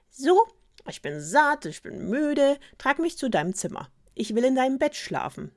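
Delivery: high, loud frog character voice; demanding frog. A narrator's reading. Frog tells the princess he wants bed, demanding. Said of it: "wandte er sich erneut an die Prinzessin".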